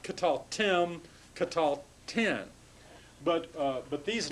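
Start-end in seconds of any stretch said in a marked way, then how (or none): 0.0-2.4 "Katal tim, katal tin" with the stress on "tim" and "tin"; accent on the ending. Shown as a demonstration. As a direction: lean slowly onto the endings "tim" and "tin". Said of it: "then the accent moves to the back".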